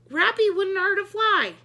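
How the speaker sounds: high loud insistent shout. A narrator's reading. Miss Sookie defending her pet, a loud insistent shout. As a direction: insist over the noise. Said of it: "shouted Miss Sookie".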